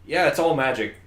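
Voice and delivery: loud, dopey meathead shrug; dumb brawler voice. Retold or imitated. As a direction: play Zeke as a big dumb fighter. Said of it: "Bear in mind that Zeke's like".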